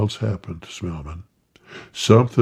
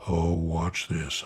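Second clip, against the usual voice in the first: soft, slow, lower hush; whispered; 5 semitones lower, 8 dB quieter, slower than usual. A narrator's reading. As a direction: hush it so the snake won't notice. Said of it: "I whispered to Council".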